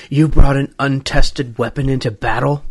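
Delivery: lightly acted reprimand in disbelief; scolding. Michael Douglas's character scolding a colonel, mock reproach. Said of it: "who scolds Colonel Patterson".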